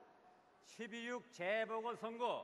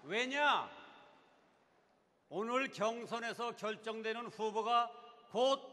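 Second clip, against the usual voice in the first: rising rally shout; 6 dB louder than usual. Real, not acted. Speaker builds to rally climax.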